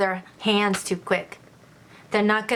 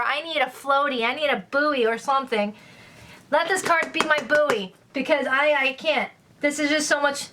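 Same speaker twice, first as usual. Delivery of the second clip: mock drowning panic; 4 semitones higher than usual. Jokes about drowning in water cards.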